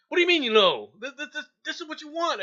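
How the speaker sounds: loud, high exasperated recruiter; mad recruiter. Retold or imitated. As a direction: bark it like an annoyed recruiter. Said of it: "the guy at the mep station's mad at me".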